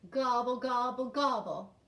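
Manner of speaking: loud, chanted turkey call; turkey gobble. Shown as a demonstration. Teacher shows children the turkey's part, loud chanted gobbles. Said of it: "you know how a turkey has".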